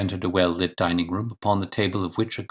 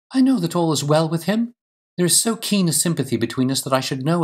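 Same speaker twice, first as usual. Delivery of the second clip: higher-pitched lady pleading with conviction; earnest, raised woman's voice, full of certainty; impassioned wife; 7 semitones higher than usual. Acted. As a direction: play a wife refusing to be discouraged.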